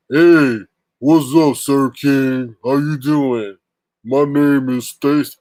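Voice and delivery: mock greeting. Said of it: "she's like".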